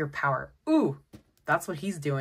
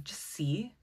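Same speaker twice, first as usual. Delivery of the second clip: soft unvoiced whisper; 5 dB quieter than usual. Real, not acted. About to draw oracle cards, whispered aside. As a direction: whisper it like a secret.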